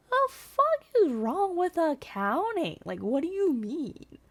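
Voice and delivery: defending her major against a rude guy; indignant retort. Retold or imitated. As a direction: fire back, appalled.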